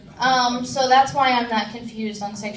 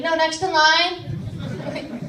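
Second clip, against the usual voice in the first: slow insistent correction; 4 semitones higher, much slower than usual. Retold or imitated. Cashier insisting, slowed.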